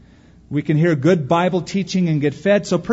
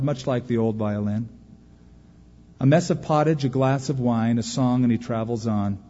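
poem recitation. Acted. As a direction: let the poem's lesson land gently.

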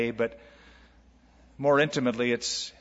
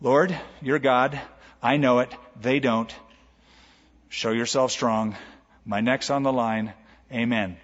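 simple sincere prayer; 3 semitones lower than usual. Retold or imitated. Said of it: "Elijah walks up there and go".

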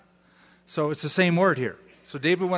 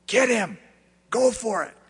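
urging crowd; 6 semitones higher than usual. Retold or imitated. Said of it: "six hundred men telling him".

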